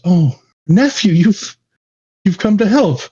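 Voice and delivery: just woken, amazed to see family; relieved surprise. Acted. Mermaid wakes and sees nephew.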